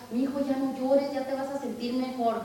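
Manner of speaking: put-on gentle, soothing comfort to a crying child; tender mother consoling her little one. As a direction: soften it like a mother calming her kid. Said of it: "Tratamos de consolarlos".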